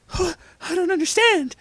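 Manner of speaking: very high, loud bewildered voice; confused Jesus. A narrator's reading. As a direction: squeal it in confusion.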